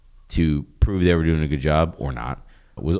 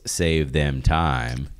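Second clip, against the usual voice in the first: air quotes; 2 semitones lower, much slower than usual. Real, not acted. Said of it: "air quotes".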